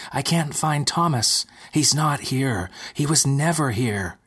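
frantic despair; distraught. Acted. Lucy distraught to Rose.

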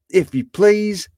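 high, polite Scrooge voice; eager Scrooge. A narrator's reading. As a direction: pitch it up, obliging and keen.

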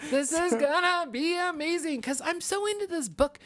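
high laughing excited words. Real, not acted. Excited about the book, laughing.

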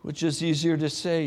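ordinary talk, nothing marked

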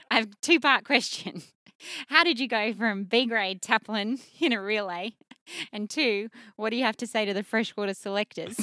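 loud, laughing question; barely holding back laughter, voice up; amused. Real, not acted. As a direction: ask it loudly while cracking up. Cracking up over her funny question.

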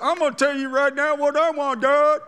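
loud, high, bossy demand at God. Pretend. Preacher mocking a demanding prayer, loud and high. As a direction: order God around, loud. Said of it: "So this isn't".

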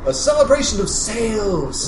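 high, chipper corporate mascot voice; beaming, over-sweet salesman; cheery spokesman. Acted. Mister Smiley voice.

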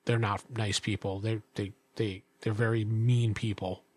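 low, hesitant innkeeper voice; reluctantly confide, halting; wary innkeeper. Acted. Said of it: "He looks around again".

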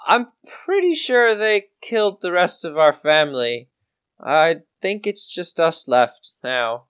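a hint of a bereaved youngster; sombre farm boy. Farm boy confiding that his family was killed, lightly voiced and sombre.

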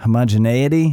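"Homogeneity" as ho-moj-uh-NAY-ity, rising like a question; questioning retry. Real, not acted. Podcaster checking his own word, "Homogeneity" questioned with a NAY sound. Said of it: "I'm always fucking it up".

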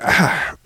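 breathy retold stretch noise; imitated stretching groan. Son stretches after the meal, imitated stretch groan. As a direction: groan through a lazy stretch. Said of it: "this stretch thing".

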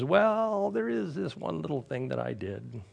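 a touch of sheepish whimpering, trailing soft; mild whimper. Retold or imitated. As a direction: confess it like a guilty child, half whimpering. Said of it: "Jonah starts to whimper".

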